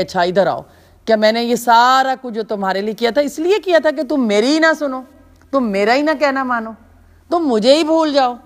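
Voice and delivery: put-on a parent scolding a child who stopped listening.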